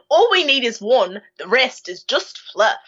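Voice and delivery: a self-mocking, bad New Zealand accent. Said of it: "That's my New Zealand accent. It's terrible".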